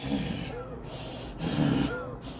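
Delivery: low, breathy dog growl; long low animal snarl; imitated dog growl. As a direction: imitate a dog's menacing rumble. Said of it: "dog turned around like".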